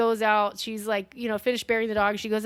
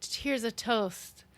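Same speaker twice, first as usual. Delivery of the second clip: creepy toast. Retold or imitated. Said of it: "she just says".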